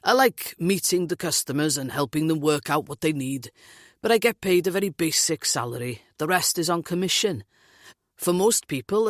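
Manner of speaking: lilting Welsh man, lightly voiced; Welsh accent. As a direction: Welsh lilt, grumbling about work. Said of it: "his Welsh accent lilting".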